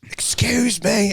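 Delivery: slow breathy lisping whisper. Retold or imitated. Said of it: "he had this, like, weird, like, fucking lisp".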